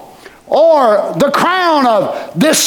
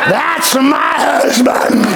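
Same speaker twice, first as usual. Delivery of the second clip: proud shout; 3 semitones higher, slower than usual. Pretend. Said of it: "looking at him and saying".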